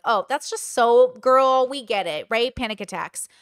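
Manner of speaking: put-on loud, drawn-out girlfriend solidarity; mock knowing sympathy. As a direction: imitate a friend who totally relates, loudly. Voicing sympathetic listeners who relate.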